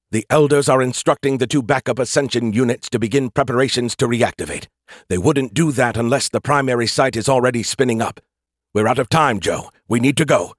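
urgent AI voice. Acted. AI character Skippy speaking.

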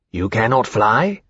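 slow, understated sorrow; sad. A narrator's reading. Temeraire questions the hatchling about flying, gently sad. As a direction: ask it slowly and sadly. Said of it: "Temeraire said sadly to the hatchling".

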